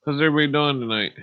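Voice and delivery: a touch of country twang. Pretend. Greeting the stream in his country voice. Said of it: "that's my country voice".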